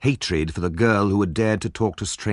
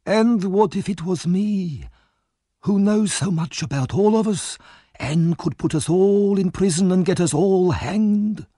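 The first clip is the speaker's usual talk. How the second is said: put-on hissing old villain; 13 semitones higher, 4 dB louder than usual. A narrator's reading. Fagin hinting at betrayal, hateful high rasp. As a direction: lure him in with a venomous question. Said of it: "whispered Fagin".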